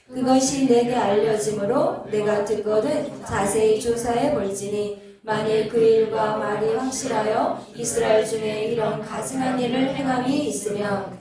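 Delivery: loud, level-pitched Bible recitation; scripture reading. Real, not acted. Pastor leading everyone in reading verse four, scripture reading. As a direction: read it out firmly for a congregation to join. Reads scripture aloud with congregation.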